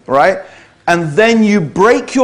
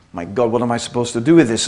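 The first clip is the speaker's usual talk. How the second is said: flustered DiCaprio; 8 semitones lower, 5 dB quieter, much faster than usual. Retold or imitated. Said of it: "he sits there like".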